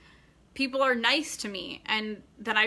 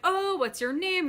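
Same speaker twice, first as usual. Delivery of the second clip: bright raised pitch, slowed and showy; talking really loud; 8 semitones higher than usual. Retold or imitated. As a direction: talk loud on purpose so he overhears. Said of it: "I started talking really loud".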